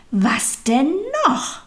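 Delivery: exasperated groan. A narrator's reading. Little soul to God, fed up with difficulties, groaning. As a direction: groan it out with rising impatience. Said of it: "stöhnte sie".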